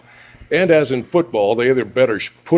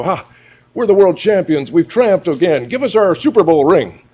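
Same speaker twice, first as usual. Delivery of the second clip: higher and louder, crowing boastfully; gloating winners; 5 semitones higher, 3 dB louder than usual. Retold or imitated. Losing team gloats to the booing crowd, loud crowing. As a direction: crow like a cheating team celebrating. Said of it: "They go".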